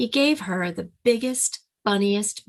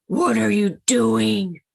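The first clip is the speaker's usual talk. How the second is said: growled demand; 3 semitones higher, 5 dB louder, slower than usual. Acted. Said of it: "they growled".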